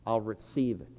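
quiet prayer. Shown as a demonstration. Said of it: "I want you just to say".

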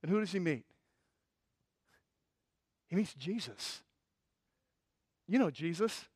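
very soft after a long pause; sudden hush. Real, not acted. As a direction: drop to a tender, hushed reveal. Hushed turn after the loud climax.

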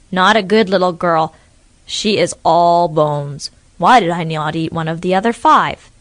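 disgusted at a bony meal; grumbling crocodile. Acted. Crocodile after eating the witch, disappointed grumble.

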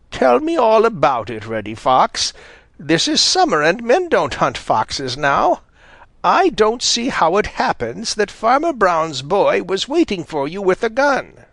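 a hint of a stern old granny asking; lightly voiced Granny Fox. A narrator's reading. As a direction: question him like a shrewd grandmother. Granny Fox questions Reddy.

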